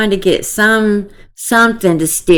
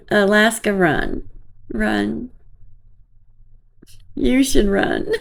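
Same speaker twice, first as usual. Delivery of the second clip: laughing warning; 3 semitones higher, 5 dB quieter than usual. Real, not acted. Vlogger laughs while telling Alaska to run.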